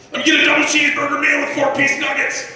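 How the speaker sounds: high panicked shouting; frantic yelling order. Retold or imitated. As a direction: yell it like you're racing. Frantic ordering at drive-through.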